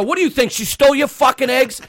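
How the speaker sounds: high, incredulous retold rant; pissed off. Bystander defending cashier to customer, pissed off. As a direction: re-enact telling off a rude stranger. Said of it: "Now, I'm getting pissed off".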